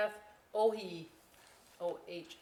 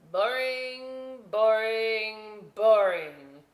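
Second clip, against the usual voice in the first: louder each time, dismissive; bored dismissal; 4 semitones higher, 10 dB louder, much slower than usual. Acted. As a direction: swat each idea away. Potato dismisses, building.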